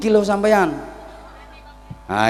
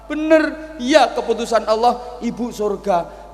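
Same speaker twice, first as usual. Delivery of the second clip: high, loud joyful confirming; high excited voice; 12 semitones higher, 4 dB louder than usual. Acted. Musa telling the old sinner of heaven, elated. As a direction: announce the good news with rising joy.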